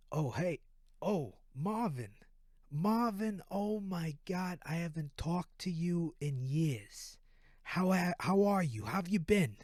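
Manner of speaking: lightly put-on East Coast accent, delighted greeting. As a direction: play an East Coast guy greeting an old pal. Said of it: "East Coast accent".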